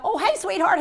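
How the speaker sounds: high-pitched, sweet covering greeting; put-on affectionate hello; gushing greeting. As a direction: greet them sweetly to hide a forgotten name. Covering for a forgotten name.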